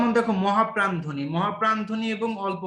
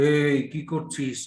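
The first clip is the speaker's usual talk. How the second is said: slow, stern scolding demo; drawn-out demo of an angry call; 4 semitones lower, much slower than usual. Shown as a demonstration. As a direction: scold someone to show a hard sound. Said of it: "কাউকে তুমি রেগে ডাকছো".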